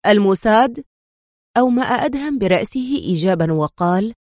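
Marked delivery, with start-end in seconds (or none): 0.0-0.8 surprised question, rising at the end; astonished exclamation. A narrator's reading. Doctor reacts to news of the Mossad, astonished. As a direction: echo it back, taken aback. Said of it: "هتف الدكتور أحمد في دهشة".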